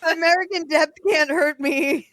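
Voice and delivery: high, loud American accent put on. Player jokes that death can't hurt them, American accent. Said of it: "did you do an American accent".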